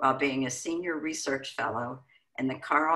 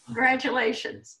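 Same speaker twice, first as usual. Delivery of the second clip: excited congratulations; 9 semitones higher than usual. Real, not acted. Host congratulates after his speech.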